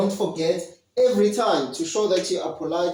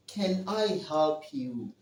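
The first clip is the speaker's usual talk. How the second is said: polite offer; 5 dB quieter than usual. Shown as a demonstration.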